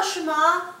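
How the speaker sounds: Shema said as SHAY-ma; long ay in the first syllable of Shema; wrong pronunciation. Shown as a demonstration. Teacher showing students the mistake, Shema as SHAY-ma. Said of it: "should not be actually pronounced".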